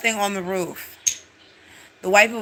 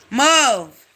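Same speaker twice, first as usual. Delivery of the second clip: sharp higher shout of Move; mock shout; 5 semitones higher, 7 dB louder than usual. Pushing past the scared couple, a sharp shout. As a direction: bark it to clear the way.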